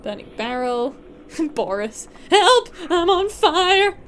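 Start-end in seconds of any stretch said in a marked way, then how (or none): 2.3-4.0 high, loud drawn-out yell; loud high-pitched call for help; mock cry for help. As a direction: shout it out like a character ablaze. Voices burning barrel character shouting for help.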